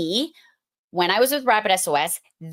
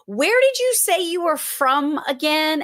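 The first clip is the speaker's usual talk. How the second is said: a higher put-on voice for a puzzled friend; mock-puzzled friend asking again; imitating Dana; 7 semitones higher than usual.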